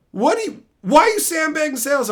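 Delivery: high, indignant accusation; accusing boss. Retold or imitated. Boss catching him sandbagging, high accusing question. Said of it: "she's like".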